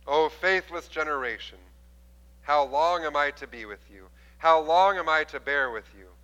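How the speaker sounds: a touch of weary frustration; stern rebuke. Retold or imitated. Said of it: "you really don't want to hear".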